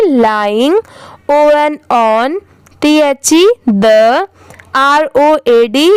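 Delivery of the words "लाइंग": लाइंग said as "lai" plus "ing"; teaching pronunciation. Shown as a demonstration. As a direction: join लाई and इंग into लाइंग. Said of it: "इसकी pronunciation क्या हो जाएगी".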